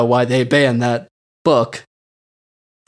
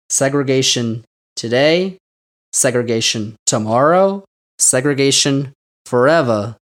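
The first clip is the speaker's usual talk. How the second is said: southern drawl; 3 semitones lower than usual. Retold or imitated. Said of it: "in his southern drawl".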